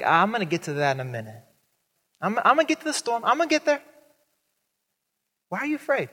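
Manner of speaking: fast, rising casual voice; mock Jesus stalling. Jesus putting off the storm to talk, fast and casual. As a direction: brush off the storm lightly.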